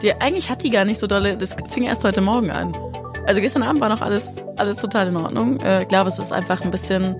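slightly hoarse from a cold; a touch of rasp in the voice; raspy voice. Real, not acted. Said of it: "mit deiner Reibeisenstimme". (leicht heisere Reibeisenstimme)

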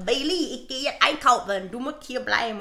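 put-on Thai accent to a dog; lightly voiced Thai accent; imitated Thai accent. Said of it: "Ich hab diesen scheiß Akzent in meiner Story gemacht".

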